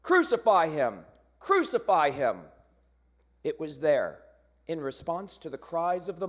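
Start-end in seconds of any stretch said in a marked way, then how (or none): 0.0-2.5 loud chanted demand; mob scream. Acted. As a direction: shout it twice like a baying crowd. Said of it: "they screamed".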